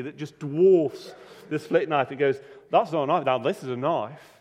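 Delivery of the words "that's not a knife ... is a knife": wry Aussie boast. Retold or imitated. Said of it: "Mick gives a wry smile and goes".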